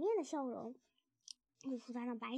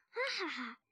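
acted "aha-ha" after a drink; delighted laugh; 2 semitones higher than usual. A narrator's reading. Drinker savours strong cider, laughing. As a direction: laugh out with relish.

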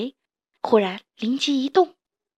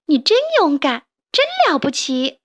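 put-on higher, louder admiring child voice; excited praise; 5 semitones higher, 4 dB louder than usual. Little toad praises grandpa, high excited voice. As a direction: gush with delight over grandpa. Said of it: "他叫道".

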